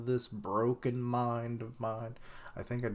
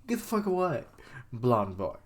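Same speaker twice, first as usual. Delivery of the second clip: sassy brush-off; 3 semitones higher, 3 dB louder than usual. Retold or imitated. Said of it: "it's like".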